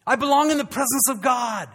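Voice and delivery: hint of David rising up; a touch of resolve. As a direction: claim your place. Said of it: "he realizes".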